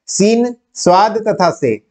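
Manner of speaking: सीन, स्वाद तथा से said slowly, each letter name apart. Shown as a demonstration. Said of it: "तीन वर्ण हैं".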